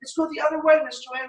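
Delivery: hammed-up novice calling out; eager beginner student. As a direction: play the overexcited new kid shouting to the teacher. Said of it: "And she does".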